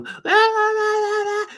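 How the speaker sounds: very high, thin cartoon squeak; sing-song it like a tiny toon; squeaky cartoon voice. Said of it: "I do that voice".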